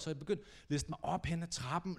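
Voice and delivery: hushed sneaking narration. Real, not acted. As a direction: tell it like you're creeping up stairs. Sneaking up the stairs.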